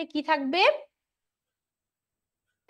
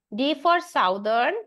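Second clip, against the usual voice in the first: drawn-out D for southern with a slightly louder D; stress on the D; 4 dB louder, much slower than usual. Shown as a demonstration. Teacher drilling students, slow stressed D for southern. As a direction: stretch out D for southern slowly so the D sound rings. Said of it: "উচ্চারণটা ডি এর মতো".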